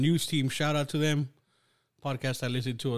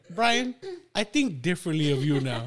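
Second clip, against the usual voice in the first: high mock disapproval; 4 semitones higher than usual. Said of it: "I remember you're like".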